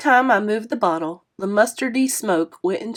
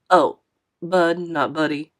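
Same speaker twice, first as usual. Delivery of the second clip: put-on a touch lower, friendly older man apologizing; lightly voiced kindly driver, a bit lower; 3 semitones lower than usual. Narrator voices Mister Lewis.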